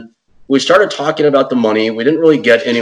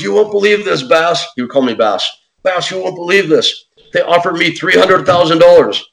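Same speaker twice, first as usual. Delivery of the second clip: excited disbelief; 7 semitones higher than usual. Retold or imitated. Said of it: "He goes".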